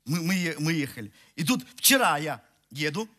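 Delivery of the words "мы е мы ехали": ordinary talk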